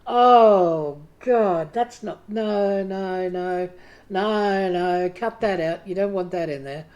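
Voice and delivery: inner critic voice. Retold or imitated. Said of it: "that little voice that when you write something goes".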